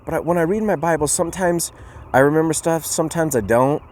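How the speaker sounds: put-on high-pitched, eager-to-answer child voice; little boy. Little boy answering his grandpa about reading the Bible, high child voice. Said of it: "So the little boy".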